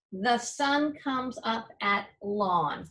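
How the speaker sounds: a teacher tries "lawn" in the sentence and finds it odd, slightly doubtful; trying the wrong word. Shown as a demonstration. Teacher tests the wrong word for the class, mildly doubtful. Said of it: "try it with both words".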